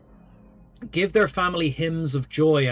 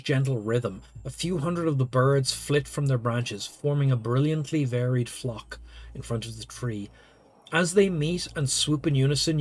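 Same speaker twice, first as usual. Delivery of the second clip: story narration. Acted. Reads game narration.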